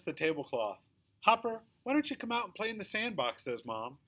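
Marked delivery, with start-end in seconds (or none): 1.2-3.4 coaxing Mom. A narrator's reading.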